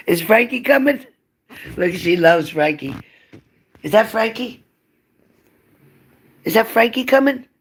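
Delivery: very high excited pet voice, rising questions. Real, not acted. Owner teases her dog that Frankie is coming, very high excited baby talk. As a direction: get the dog excited about a visitor.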